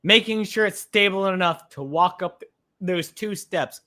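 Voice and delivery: talking through hiccups; words broken by hiccups. Real, not acted. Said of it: "Excuse my hiccups".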